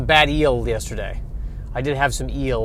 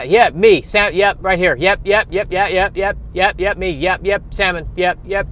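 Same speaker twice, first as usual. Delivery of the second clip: chattering salmon crowd; 3 semitones higher than usual. Acted.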